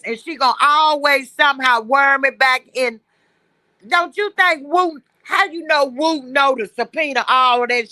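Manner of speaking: choppy robot-like call line; breaking up over the phone; robotic phone audio. Real, not acted. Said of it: "'Cause your phone sound like a robot".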